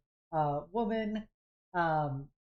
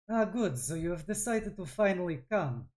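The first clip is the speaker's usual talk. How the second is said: put-on thick Von Yaskin accent. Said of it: "in a thick Von Yaskin accent".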